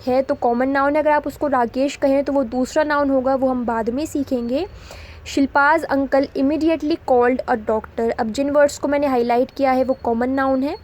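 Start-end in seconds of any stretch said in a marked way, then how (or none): 5.3-8.1 slow, word by word, for the class; slow dictation read. Shown as a demonstration. Teacher reading an example sentence to students, slow and deliberate.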